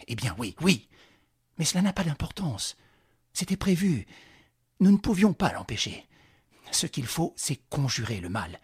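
exclaiming. Acted. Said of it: "il s'exclama".

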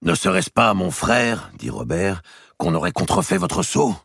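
high, sly leading question; probing Robert. Acted. Robert slyly suggesting a forged seal to the king. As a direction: plant the idea innocently.

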